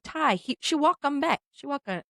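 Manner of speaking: imitated broken-English accent; masseuse's foreign accent. Masseuse explaining injury, imitated foreign accent. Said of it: "and she goes".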